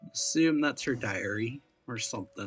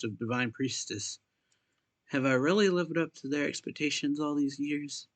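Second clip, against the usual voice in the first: measured, lightly lifted reading voice; story read-aloud; 3 semitones higher, 5 dB louder than usual. Acted. Player reading a game character's diary to viewers, read-aloud voice. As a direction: read the written entry out clearly.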